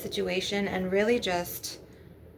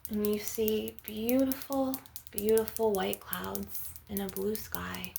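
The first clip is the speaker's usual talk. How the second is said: guided meditation. Acted. Healer guiding listeners to envision a healing ocean, guided meditation. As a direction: lead listeners gently through an imagined scene.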